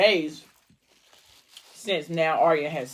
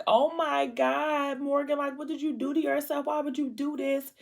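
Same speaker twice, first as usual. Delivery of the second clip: retold distress; 9 semitones higher than usual. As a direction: imitate a friend's distressed pleading, pitched way up. Friend horrified at patient's hospital bedside.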